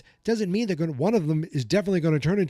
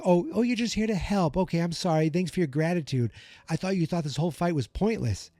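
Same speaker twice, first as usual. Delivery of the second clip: sarcastic mockery; 2 semitones higher than usual. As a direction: throw her words back at her, sneering. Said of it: "He's like".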